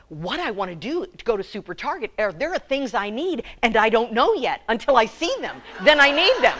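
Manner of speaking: quick half-whispered confidence building to a laugh; lightly voiced shopper confiding; imitating a shopper. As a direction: lean in like sharing a secret. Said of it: "she looked me right in the eyes and she said".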